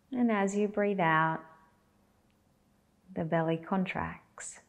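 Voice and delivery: calm guidance in short, spaced-out phrases; guided meditation. Acted. Teacher guiding belly breaths, unhurried guided meditation. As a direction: leave long silences for them to breathe.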